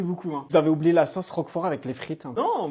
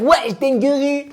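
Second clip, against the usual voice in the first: slow drawn-out exclamation; 7 semitones higher, 4 dB louder, much slower than usual. Retold or imitated. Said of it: "toute la France commence à dire".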